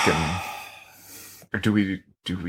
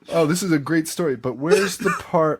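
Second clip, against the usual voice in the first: mock studio exec; 4 semitones higher than usual. Voicing studio executives' notes.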